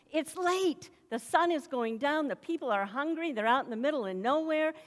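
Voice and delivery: insistent, mildly exasperated plea; urging complaint. Acted. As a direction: rattle off the reasons to leave. Voicing the disciples' impatient hints.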